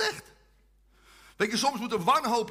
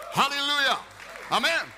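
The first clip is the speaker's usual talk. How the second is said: uitroep; 6 semitones higher, 4 dB louder than usual. Real, not acted. Predikant roept de zaal toe.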